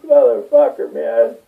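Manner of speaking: high, loud protest; mock outrage. Refusing the bad news, a high, loud indignant protest. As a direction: rail against fate, half joking. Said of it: "I'm like".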